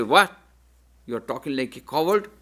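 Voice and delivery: a sharp What, then a scornful question; mock scolding. Krishna mock-rebuking Arjuna, the answer he does not give. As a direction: scoff at him as a coward. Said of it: "he doesn't say".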